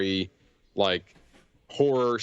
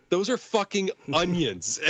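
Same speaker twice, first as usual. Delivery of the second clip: deadpan quote; 7 semitones higher than usual. Retold or imitated. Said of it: "Dan Stevens goes".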